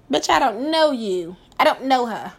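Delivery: lightly voiced diva put-down. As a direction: toss it off like a diva who has never heard of her. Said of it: "Mariah Carey, okay?".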